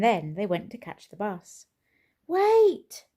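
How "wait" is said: much higher, much louder full bellow; huge high bellow. A narrator's reading. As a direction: bellow it at the leaving children. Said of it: "bellowed Mister Brown".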